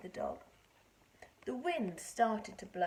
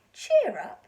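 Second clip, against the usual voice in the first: hearty cheer; 6 semitones higher, 15 dB louder than usual. Acted. George comforts mouse.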